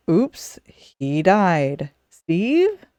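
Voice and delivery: offhand, barely caring call; casual indifference. Retold or imitated. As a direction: shrug it off, then call the name. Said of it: "there were variations for".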